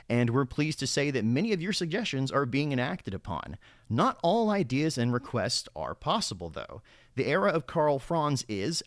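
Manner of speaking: reading it like a newscaster; polished TV news read; news anchor voice. Shown as a demonstration. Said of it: "use my news anchor voice while doing it".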